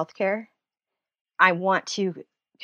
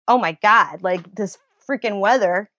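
hammed-up dread, louder on melt; mock panic; 6 dB louder than usual. Mocking people who fear the weather, hammed-up panic. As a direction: overplay the weather terror for a laugh.

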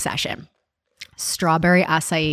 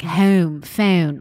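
Philly fronted O in "Home, phone"; Philly accent. Shown as a demonstration. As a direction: show off the Philly O vowels. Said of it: "like, that's Philly".

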